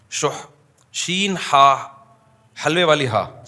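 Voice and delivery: شح spelled slowly as شین and حلوے والی ہا; spelling out the word. Shown as a demonstration. Preacher spelling شح for the congregation, slow and deliberate. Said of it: "شح جسے کہا جاتا ہے عربی میں".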